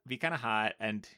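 ordinary talk

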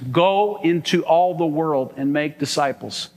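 "Go" stressed, unhurried; slow emphatic repeat. Shown as a demonstration. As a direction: repeat the command slowly and weightily. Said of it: "repeats the verse for emphasis".

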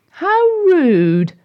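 a touch of offended huff; indignant. Acted. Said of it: "said Sarah to Katy".

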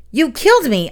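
high, loud angry yell; yelling at the goblin who killed me. Acted. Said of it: "I yell".

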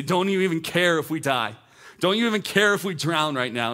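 mock-indignant cry for help; accusing disciples. Disciples waking Jesus in the storm, accusing.

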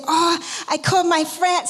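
put-on half-hearted try at Louisa's Jamaican accent; attempted Jamaican accent. Preacher quoting Louisa from Jamaica, mild Jamaican accent try. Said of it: "sorry, I can't do your accent".

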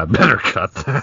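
breaking into laughter. Real, not acted. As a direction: crack up while saying it. Cracks up at own remark.

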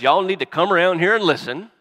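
put-on Jacob as a Southern granddad calling his boys; Southern accent. Jacob imagined calling his sons in a Southern accent. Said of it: "if he had an accent like that".

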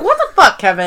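high, incredulous what the fuck; mock outraged question. Recapping the show, Oscar reacts to Kevin's jail remark. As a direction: throw the shocked question high. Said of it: "He's just like".

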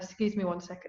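strained after tea went down wrong; choking on a drink. Real, not acted. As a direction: talk through a choke on tea. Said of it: "sip of tea went down the wrong way".

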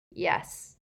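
breathy whispered yes; whispered elf. Acted. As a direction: barely breathe it out. Elf reluctant admission.

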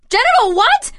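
high, startled question; shocked. Acted. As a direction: gasp out the word in disbelief. Shocked at genital reconstruction.

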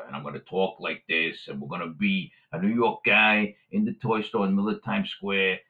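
lightly voiced New York guy; a hint of Times Square New Yorker; New Yorker accent. Shown as a demonstration. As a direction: slip into a low-key New York accent. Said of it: "I'm gonna be a quintessential New Yorker".

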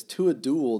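reading a scream. Acted. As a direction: bark out the old fool's challenge. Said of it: "the old fool screamed again".

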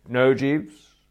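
loud, high, final no; firm refusal. A narrator's reading. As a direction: cut him off firmly. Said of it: "I said firmly".

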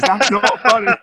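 put-on high, loud kid's protest; little boy's voice. Dad voices his little boy Jack protesting, high and loud. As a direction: voice your small son objecting. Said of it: "He goes".

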